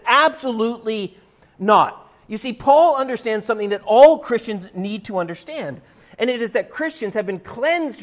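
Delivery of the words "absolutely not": "Absolutely not." with a loud hit on "not."; emphatic. Retold or imitated. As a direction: slam down "not." as a final verdict. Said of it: "He couldn't be more emphatic".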